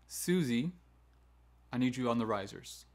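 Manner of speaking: name first, then a measured instruction; calm, firm falling command; authoritative command. Shown as a demonstration. Teacher sending Susie to the risers, calmly firm. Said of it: "needs to be a authoritative command".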